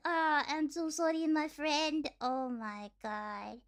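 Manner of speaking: lightly voiced Russian gamer's apology, unraised; understated take on a trolling Russian player; mock Russian gamer. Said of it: "they're like".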